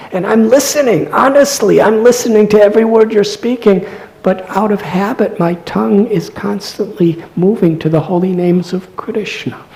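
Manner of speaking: high-pitched, earnest acted protest, loud then easing; respectful, loving plea. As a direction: plead innocence earnestly without losing respect. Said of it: "very respectfully, very lovingly".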